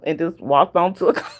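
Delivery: words broken by a laugh; half laughing as she tells it; laughing through it. Real, not acted. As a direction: chuckle through the line. Laughs while retelling.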